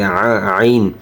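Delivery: আইন pushed from inside the throat. Shown as a demonstration. Teacher corrects the letter ain, throaty আইন. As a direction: make আ deep in the throat. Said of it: "আইন গলার ভিতর ঢুকবে".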